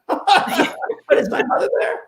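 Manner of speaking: high laughing question, slow and breathless; a very high, laughing plea to the spirits; laughing shock. Retold or imitated. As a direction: ask it through a laugh of disbelief. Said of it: "I was, like, shocked".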